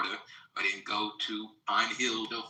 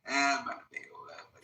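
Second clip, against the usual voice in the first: fast and higher, laughing; excited laughing; 5 semitones higher, faster than usual. Real, not acted. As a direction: rattle it off gleefully, laughing. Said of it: "I'm smiling from ear to ear".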